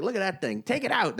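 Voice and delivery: mock eagerness, pitch jumping up at the end; retold eager onlooker. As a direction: lightly act out a keen onlooker. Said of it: "it's like".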